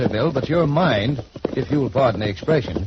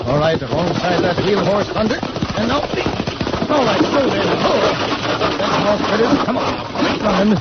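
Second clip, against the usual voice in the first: higher, effortful calls mid-leap; strained urging; 5 semitones higher than usual. Acted. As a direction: strain as you jump and steady the horses. Leaping onto the runaway team.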